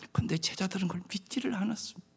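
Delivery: quick whisper, almost confiding; whispered aside. Acted. Pastor confiding the disciples' unbelief, a fast whisper.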